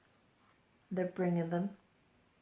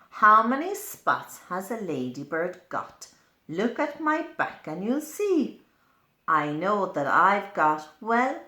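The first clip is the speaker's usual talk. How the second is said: louder, bouncy boastful ladybird; 3 semitones higher, 9 dB louder than usual. Acted. Ladybird inviting the child to count, loud and proud. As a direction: show off your spots proudly.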